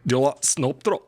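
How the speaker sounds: light mock Scottish accent. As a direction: tease a Scottish friend in a hint of Scottish accent. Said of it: "Wait, say it slowly".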